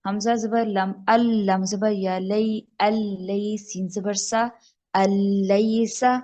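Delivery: slow ال، لئی سا with the nun fully merged into lam; slow spelling out. Shown as a demonstration. Teacher showing how it is done, slow spelled recitation. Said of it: "میں آپ کو کر کے بتاتی ہوں".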